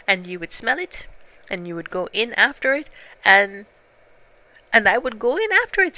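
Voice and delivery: eager little Piglet running ahead of himself. Acted. Piglet explaining his honey trap to Pooh, high and eager.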